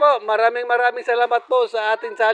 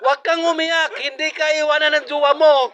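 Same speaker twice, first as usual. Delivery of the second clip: playful teasing; 5 semitones higher than usual. Real, not acted. Teasing the eater for tearing up.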